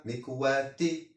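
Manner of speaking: مكواتي ending in short -i, "mikwati"; single kasra ending. Shown as a demonstration. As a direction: say مكواتي with final -ti, no n. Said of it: "كسرة". (مكواتي بكسرة واحدة في آخرها)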